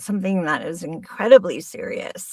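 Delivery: playfully demonstrating a funny high voice; high-register demo. Shown as a demonstration. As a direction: go up high while claiming to be serious. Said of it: "I can be up here".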